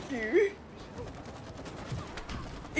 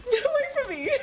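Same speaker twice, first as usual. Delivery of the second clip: panicking gamer; 6 semitones higher, much faster than usual. Real, not acted. Enemy following her.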